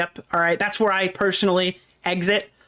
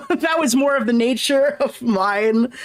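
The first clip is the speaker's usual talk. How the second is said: laughing; 5 semitones higher, slower than usual. Real, not acted. Laughing after reading his rant.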